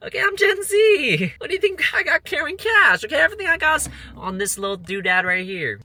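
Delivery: very high, loud comic squeal; mock indignant rant. Vlogger mocks the idea of carrying cash as Gen Z, squealed indignation. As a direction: squeal it in hammed-up protest.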